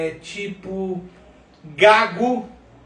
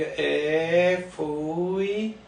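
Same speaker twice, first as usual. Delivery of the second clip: drawn-out, hesitant syllables; imitating halting journalist; 3 dB quieter than usual. Mocking a journalist who spells out the words, dragged and halting. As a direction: stretch each word as if groping for the next. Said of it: "é como o jornalista que fica".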